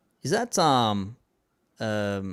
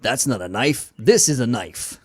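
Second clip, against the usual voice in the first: hammed-up Australian accent, louder on knife; an American faking an Australian accent, slow and louder at the end; mock Australian accent; 6 dB louder, slower than usual. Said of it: "put on an Australian accent".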